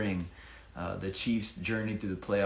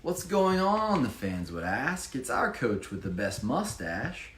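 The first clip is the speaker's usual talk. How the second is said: lively rhyming read-aloud; bouncy storybook reading voice; story narration; 3 semitones higher than usual. Acted. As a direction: read it like a picture book for children. Reads rhyming Chiefs picture book.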